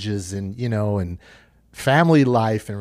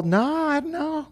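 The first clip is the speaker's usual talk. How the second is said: cousin's reply; 14 semitones higher than usual. Retold or imitated. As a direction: lightly play the cousin. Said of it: "He's all".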